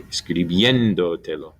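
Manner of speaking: Escribiéndotelo with a strong BIÉN; stress four syllables back. Shown as a demonstration. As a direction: lean on BIÉN in Escribiéndotelo, dotelo following lightly. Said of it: "it's just gonna be four back".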